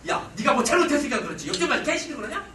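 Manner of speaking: loud, irritated blaming; mock-accusing retort; annoyed husband. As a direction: scold her like a displeased husband. Acts annoyed husband blaming his wife.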